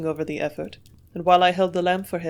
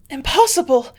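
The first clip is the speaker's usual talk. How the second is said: shocked gasp, higher and louder; 7 semitones higher, 8 dB louder than usual. A narrator's reading. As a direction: gasp it in disbelief. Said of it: "she gasped".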